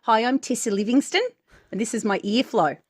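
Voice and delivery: lightly put-on New Zealand accent, barely shifted; a clumsy mock New Zealand accent doing Tessa; bad New Zealand accent. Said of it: "Horrendous. Bad Australian".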